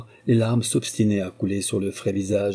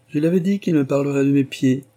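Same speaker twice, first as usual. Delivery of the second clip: exclaiming; 5 semitones higher, 5 dB louder than usual. A narrator's reading. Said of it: "s'écria-t-elle".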